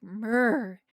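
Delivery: short cat meow, lightly mimicked; imitated cat yell. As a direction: mimic a demanding old cat's "murr". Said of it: "he starts doing these, like, full body".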